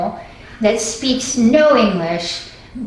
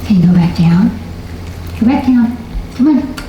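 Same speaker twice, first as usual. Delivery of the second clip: firm command. Real, not acted. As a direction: tell the dog firmly to lie down. Commanding the dog firmly.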